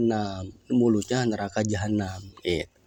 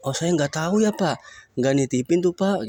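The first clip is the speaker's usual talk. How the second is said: heir denying; 7 semitones higher than usual. Acted. Heir telling the rich man nothing was left, raised voice. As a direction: shrug it off as the heir. Heirs deny knowing of deposit.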